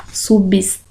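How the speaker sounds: "Substância" split into subs, tân, cia; sílaba por sílaba. Shown as a demonstration. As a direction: sound out "Substância" with long pauses between syllables. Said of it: "depois mais duas sílabas". ("Substância" separado em sílabas, com pausas)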